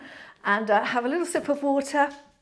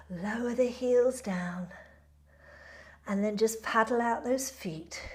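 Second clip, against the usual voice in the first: yoga instructor cueing. Acted. Leads a yoga flow.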